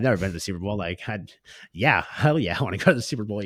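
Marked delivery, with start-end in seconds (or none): 1.7-3.4 eager and loud, with laughter; thrilled to be invited; excited laughing yell. Real, not acted. Excited at Super Bowl invite.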